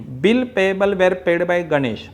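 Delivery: a hint of a student reading slowly; slow, careful student read; lightly acted student. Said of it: "बघा मी स्टुडंटची acting".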